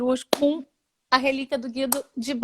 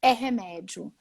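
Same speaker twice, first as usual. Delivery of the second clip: earnest advice; slower than usual. Retold or imitated. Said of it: "Aí eu falei".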